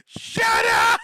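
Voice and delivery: high, loud tantrum shouting; Chibi. Acted. VTuber clip imitation, yelling about Moon Dang. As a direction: imitate a screaming VTuber meltdown. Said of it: "like Chibi yelling about Moon Dang".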